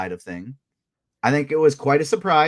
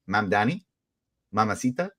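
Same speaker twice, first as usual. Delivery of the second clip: quoting the viral line; 3 semitones lower, 4 dB quieter than usual. Retold or imitated. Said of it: "for me to go".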